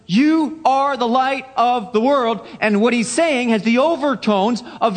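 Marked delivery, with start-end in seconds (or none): 0.1-2.5 slow, higher declaration stressing YOU; deliberate, pointed YOU; emphatic YOU. Acted. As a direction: address them directly, each word separate from YOU onward. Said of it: "he's pointing at them".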